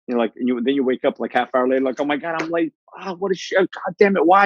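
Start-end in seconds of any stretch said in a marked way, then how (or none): 2.0-4.4 mock frustrated rant. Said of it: "And you're already angry".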